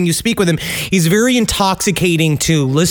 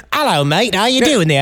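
put-on British accent. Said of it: "guy that played Charles Manson".

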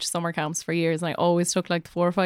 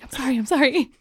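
higher, laughing apology; mock apology; 4 semitones higher than usual. Teacher retells apologising to her scolding sister, mock apology. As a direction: apologise hastily through a laugh.

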